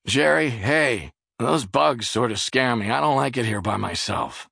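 a frightened plea from across the room; scared. Acted. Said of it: "then he said suddenly".

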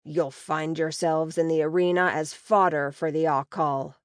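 light sneering orc threat. Acted. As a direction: sneer the warning at her. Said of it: "he says with a sneer".

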